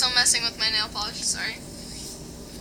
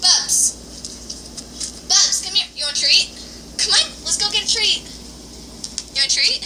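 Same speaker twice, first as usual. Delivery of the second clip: talking to a dog; 5 semitones higher than usual. Real, not acted. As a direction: coax the dog with a treat. Coaxing dog with treat.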